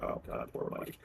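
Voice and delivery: hushed, half-whispered sympathy; soft retold aside; quiet pitying aside. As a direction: say it under your breath. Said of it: "I'm like".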